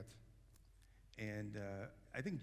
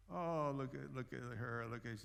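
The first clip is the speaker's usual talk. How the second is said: mock pity; 3 semitones higher than usual. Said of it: "there's a flip side".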